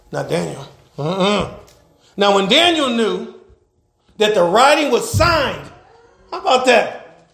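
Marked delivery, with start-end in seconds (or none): 2.2-5.7 declaimed Bible verse, key words stretched; preaching scripture. Acted. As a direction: proclaim the verse to the church.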